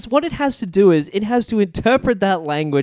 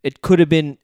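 lower, understated Australian alien; soft Australian; 4 semitones lower than usual. Retold or imitated. Alien villain to his science guy, soft Australian. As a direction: imitate a low-key Aussie villain. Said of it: "it's literally like that".

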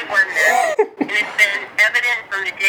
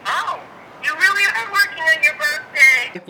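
parent on speakerphone; 6 semitones higher than usual. Real, not acted. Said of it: "You're on speaker".

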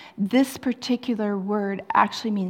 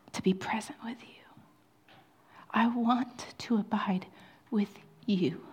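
tender whisper; 6 dB quieter than usual. Retold or imitated. God's tender words, retold.

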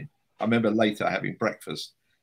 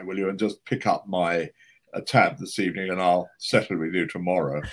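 retold whisper; 3 dB louder than usual. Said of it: "he leant over to me and he whispered".

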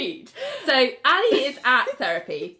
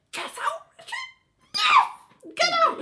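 mock exasperation; 3 dB louder, much slower than usual. Acting out judge throwing Richard out.

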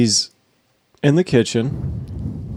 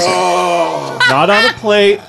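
mock outrage; 3 semitones higher than usual. Outraged at raw chicken.

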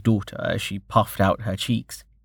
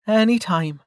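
high, lightly smiling reply; small smile; 11 semitones higher than usual. A narrator's reading. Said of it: "she said with a small smile".

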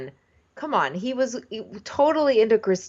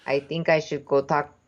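put-on Russian accent; 5 semitones lower than usual. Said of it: "I can't do the accent".

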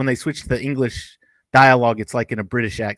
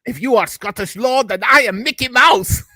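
much higher, indignant character voice; movie quote; 9 semitones higher than usual. Acted. Quoting the castle scene to co-host, indignant character voice. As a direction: declaim it as a scoffing retort.

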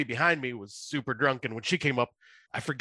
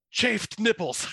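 higher, blurted out; blurted answer; 9 semitones higher, much slower than usual. Retold or imitated. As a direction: blurt it on the spot. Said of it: "I just said".

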